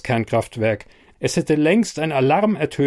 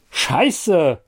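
a sharp, higher cry of pain; shouted curse; 5 semitones higher, 3 dB louder than usual. A narrator's reading. Falling on the metal walkway, a sharp pained shout. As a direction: yelp it out as you hit the floor. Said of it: "verhallt mein Ruf".

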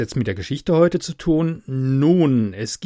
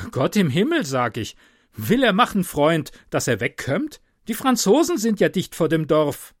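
higher, urgent warning; alarmed innkeeper; 4 semitones higher than usual. Acted. Innkeeper warns the rider the French are near, alarmed. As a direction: plead with him to get away.

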